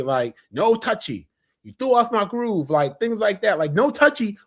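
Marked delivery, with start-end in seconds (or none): 0.5-2.7 quoting Cusco. Retold or imitated. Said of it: "things that we still say". 3.7-4.4 quoting Cusco. Retold or imitated. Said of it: "was famous".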